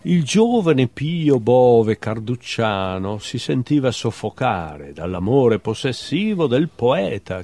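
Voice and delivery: measured literary recital with lifted titles; poetry reading. Acted. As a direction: read short animal poems, letting each ending drop away. Reads own poems aloud. (lettura poetica recitata)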